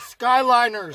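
high, laughing West Coast take; mock how the West Coast says it; West Coast accent. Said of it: "West Coast niggas is like".

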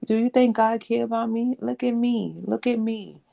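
high, loud, pleading outcry, fading toward the end; retold desperate plea. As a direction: cry out to God in retold despair. Retold crying out to God.

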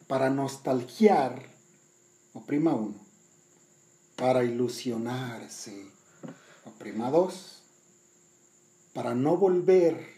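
measured, expressive poetry recital; poem reading. Acted. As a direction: read it like a poem on stage. Reads the poem aloud.

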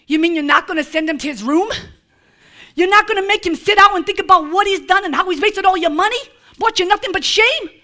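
fast, laughing disbelief; incredulous. Acted. Preacher mocking objections to the father's mercy, fast and laughing. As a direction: rattle it off in mock outrage.

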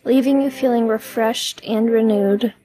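measured meditation delivery with long pauses; guided meditation. Acted. Podcast host leading listeners through releasing stress, guided meditation. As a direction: guide the listener gently, leaving room to breathe.

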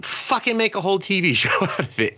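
high-pitched, half-laughing mock decree; mocking enthusiasm. Imitating studio bosses ordering a show, in high mocking enthusiasm. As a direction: send up a foolish decision.

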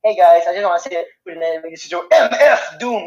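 "M F Doom" with each letter hit hard; capitalized M F Doom. Shown as a demonstration. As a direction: punch every capital in "M F Doom". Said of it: "You gotta say capitalized".

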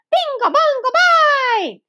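high, loud gleeful chant; shouted. A narrator's reading. Small boy shouting nonsense to make noise. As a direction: yell it just to make noise.

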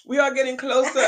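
laughing through a cough; recovering with a laugh; laughing after choking. Real, not acted. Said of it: "I'm choking".

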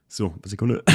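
recovering from a coughing fit; choking on a drink. Real, not acted. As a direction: catch your breath after choking. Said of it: "Jetzt hab ich ihn verschluckt".

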